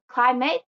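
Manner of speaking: "climate" with stress on CLI; stress on first syllable. Shown as a demonstration. Teacher shows English learners first-syllable noun stress, stressed CLI in "climate". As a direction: lean on the start of "climate". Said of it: "The stress is in the beginning".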